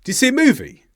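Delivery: "Do you see a movie?" with "Do you" and "a" almost gone, stress on "movie"; as a native hears it. Shown as a demonstration. Teacher showing what native speakers hear. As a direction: give only "see" and "movie" weight in "Do you see a movie?". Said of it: "A native speaker of English would hear this".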